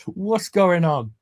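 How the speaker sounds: high, slow, drawn-out question; acted bewilderment. Lister spinning round after Rimmer, high and bewildered. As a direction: stretch it out in mock confusion.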